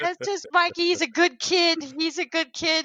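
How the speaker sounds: high mock reassurance; imitated neighbor. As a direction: vouch for the local oddball. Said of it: "his neighbors are like".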